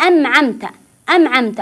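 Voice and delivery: أمعمت with a meem in place of the noon; أمعمت, both nasals as m; wrong reading. Shown as a demonstration. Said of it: "يقرأ النون بالميم".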